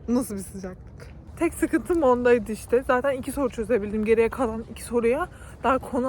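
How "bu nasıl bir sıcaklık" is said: mock exasperated note. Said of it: "hocaya not bırak dedim".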